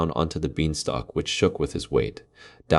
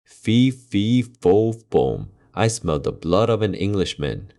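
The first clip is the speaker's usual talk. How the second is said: ogre crying out; 4 semitones higher, slower than usual. Acted. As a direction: roar the chant like a hungry giant. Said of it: "cried out the ogre".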